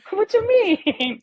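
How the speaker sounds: high, slow, stretched-out question; baffled disbelief. Retold or imitated. To her husband, mock disbelief, very high and slow. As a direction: draw the question out, stunned.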